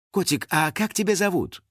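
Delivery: high, sweet-talking question; affectionate. A narrator's reading. Star asking a girl her name, affectionate. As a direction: coo it with a touch of affection. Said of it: "ласково спросила".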